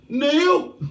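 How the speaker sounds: a lightly voiced Black Country query; Black Country accent. Imitating a Black Country viewer calling out in a light Black Country accent. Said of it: "'Cause Steve Colk is from the Black Country".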